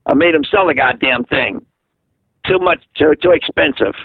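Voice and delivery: lightly imitated mother's blunt complaint. Son quoting his mother speaking through Lana, blunt mock grumble. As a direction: retell mother's grumbling with a bit of bite. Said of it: "And that's the way she talks".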